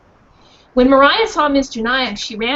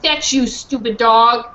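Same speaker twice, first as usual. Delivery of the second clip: put-on mean boy; 4 dB louder than usual. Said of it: "he said".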